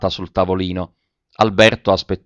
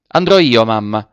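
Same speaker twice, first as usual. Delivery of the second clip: urgent, frightened offer to go; anguished outburst; 6 dB louder than usual. A narrator's reading. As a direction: blurt it out, anguish showing. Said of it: "l'angoscia acuta tradivasi nell'accento".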